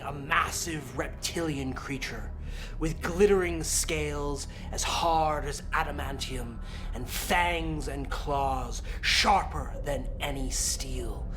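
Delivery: slow, hushed dramatic narration; game master narration. Acted. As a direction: build dread as you describe the beast. Game master describes the dragon.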